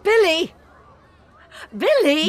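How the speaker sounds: loud, high call across the schoolyard. Acted. Mother calling her son across the yard, loud and high. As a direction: call his name to get his attention.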